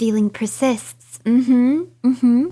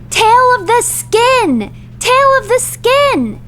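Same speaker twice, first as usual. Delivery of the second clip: loud, high exasperated cry; high-pitched indignant protest; pissed-off outburst; 10 semitones higher, 4 dB louder, slower than usual. Real, not acted. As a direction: stretch the words out in loud outrage. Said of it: "now I'm pissed".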